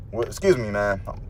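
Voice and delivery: winded, catching breath between words; short of breath, pushing through. Real, not acted. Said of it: "I'm a little short of breath".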